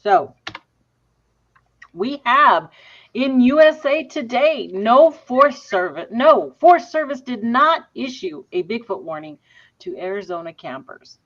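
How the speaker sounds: talking while chewing gum; words round a wad of gum. Real, not acted. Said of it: "I gotta take this gum out".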